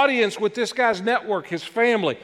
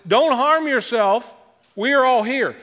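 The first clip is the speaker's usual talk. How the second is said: retold shout; 4 semitones higher than usual. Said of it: "He shouted".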